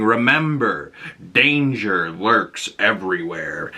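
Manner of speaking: slow, lightly spooky warning; ominous mentor. Retold or imitated. Professor X warns the new recruits in a slow, lightly spooky voice. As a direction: warn them to scare them, slowly. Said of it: "Charles scares everyone, saying".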